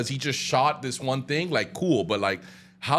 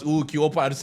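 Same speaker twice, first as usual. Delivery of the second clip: lightly put-on Colombian accent, imitating Bless; mock Colombian greeting, slightly accented; bad Colombian accent impression; terrible Colombian accent. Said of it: "that's a terrible accent anyway".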